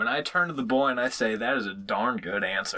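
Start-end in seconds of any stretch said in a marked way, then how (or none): 1.3-2.8 put-on light country accent with a laugh. Turning to the boy to praise him, country accent. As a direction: say it with a touch of country twang. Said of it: "In your best country accent".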